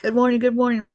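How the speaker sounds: high bright cheery welcome; excited greeting. Real, not acted. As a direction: sing out a happy hello. Greeting viewers on livestream.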